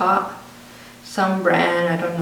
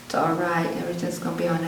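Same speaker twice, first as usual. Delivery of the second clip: soothing grandma; 5 dB quieter than usual. Retold or imitated. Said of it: "just soothing me, comforting me".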